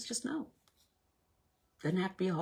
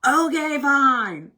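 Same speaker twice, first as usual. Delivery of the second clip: grudging okay; 9 semitones higher, 12 dB louder, much slower than usual. Retold or imitated. Reluctant giving in.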